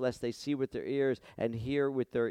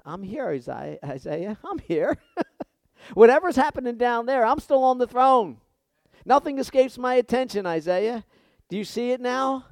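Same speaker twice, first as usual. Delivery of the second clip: booming, high, loud divine answer; voice of God; 11 semitones higher, 9 dB louder than usual. Acted. God answering Isaiah from the throne, booming. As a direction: proclaim it from the throne. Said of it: "He said".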